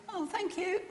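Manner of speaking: a thank-you with no real joy behind it; flat thank you. Retold or imitated. Thanking the nurse for good news, sounding unexcited. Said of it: "I didn't sound very excited".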